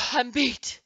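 high, loud gasp of defeat. A narrator's reading. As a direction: gasp it out, spent from dancing. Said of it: "threw up both arms and gasped".

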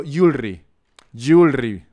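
"jewelry" with a firm tapped Spanish R; Spanish-R English. Shown as a demonstration. Latino defending his R, Spanish-R English. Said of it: "digo mi R".

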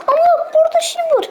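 breathless hushed whisper; hushed, excited whisper; sudden whisper. Real, not acted. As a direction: whisper it like a secret find. Spots something, hushed.

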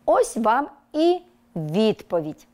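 whisper. Acted. Teacher reveals the tale's answer.

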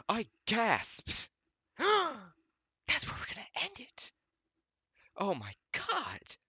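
very high, loud shriek; sudden escalation. Real, not acted. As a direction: explode into a squealing outburst. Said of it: "That went from, like, fifty to ninety".

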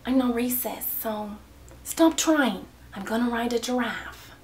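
understated mock African accent; a lightly attempted African accent. Shown as a demonstration. Doing the accent challenge for fans, light mock African accent.

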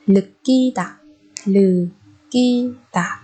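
"lực kỳ tả" broken into slow syllables with initial l; sound change. Shown as a demonstration. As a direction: say "lực kỳ tả" slowly, starting with an l sound. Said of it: "biến âm giống như lúc nãy mình nói".

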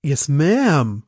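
Paris's clipped "Yes, ma'am"; lightly imitating Tom Paris saying "Yes, ma'am"; Mister Paris emphasis. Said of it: "in seiner Mister Paris Betonung".

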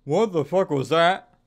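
loud, slow, stunned outburst; loud startled what; shocked. Real, not acted. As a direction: drag it out in disbelief. Reacting to a scare.

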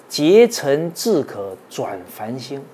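slow, loud, drawn-out recitation of the couplet; measured chanting of a classical verse. Acted. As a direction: declaim each word slowly like scripture.

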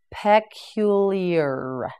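Peculiar stretched out very slowly; very slow, syllable by syllable. Shown as a demonstration. Teacher modelling Peculiar very slowly for learners. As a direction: pull Peculiar apart syllable by syllable. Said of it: "teacher models the word slowly".

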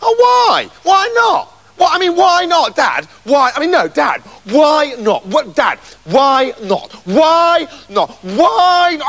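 high, whining, insistent nagging; child-like nagging, relentlessly repeated; pestering son. A narrator's reading. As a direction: keep pestering Dad in a high whine. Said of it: "Hideous wouldn't stop asking".

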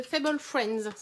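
attempted English accent on the product name. Real, not acted. Crafter reading out the set's name, in an attempted English accent. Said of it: "avec mon bel accent anglais".

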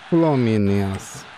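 slow, stretched Fluminense; drawn out. Shown as a demonstration. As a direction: drag out Fluminense with respect. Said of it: "Fluminense é Fluminense".

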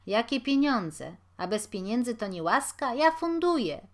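a big-hearted bellow, rising to the last word; boom. A narrator's reading. Walenty declares he is paying for the drinks, booming. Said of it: "huknął pan Walenty".

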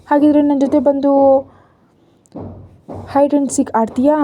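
put-on a touch of girlish wheedling; playful coaxing. A narrator's reading. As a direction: coax a friend into playing, high and lingering. Girl coaxes boy to play.

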